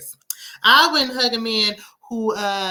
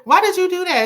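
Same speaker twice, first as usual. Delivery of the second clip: much higher and louder, laughing through it; laughing disbelief; 10 semitones higher, 7 dB louder than usual. Real, not acted. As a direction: burst out laughing as you repeat it.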